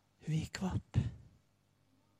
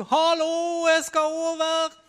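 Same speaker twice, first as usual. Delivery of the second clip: higher, louder shout to the boatman; calling across; 11 semitones higher, 7 dB louder, slower than usual. Retold or imitated. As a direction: call out high across the fjord. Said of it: "du måtte rope".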